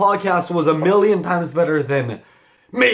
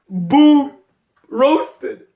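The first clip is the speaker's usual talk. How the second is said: mock taunt; 6 semitones higher, 4 dB louder than usual. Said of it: "tried to make fun of me by saying".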